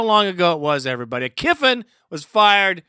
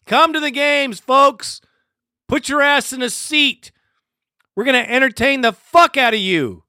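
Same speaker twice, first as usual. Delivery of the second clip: higher, mocking hype-man pitch; mock team sales pitch; 6 semitones higher than usual. Fan mocking the team's ticket ads, sarcastic sales pitch. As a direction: parody the team's ticket ad with scorn. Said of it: "They really have the nerve to say".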